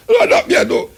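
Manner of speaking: laughing it off, high and bright; real laugh bursting through the words. Real, not acted. Host laughing at his own fuss to listeners, laughing.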